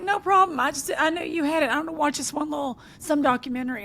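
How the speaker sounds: high, bright put-on old lady voice; eighty-nine-year-old mama. Retelling the old lady's call to a friend, pitched high. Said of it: "She's eighty-nine and was like".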